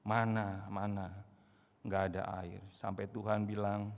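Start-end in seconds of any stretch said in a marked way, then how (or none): 0.1-2.6 a low, muttered grumble; grumbling. Retold or imitated. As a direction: complain under your breath. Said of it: "grumbling, mengeluh, dumel".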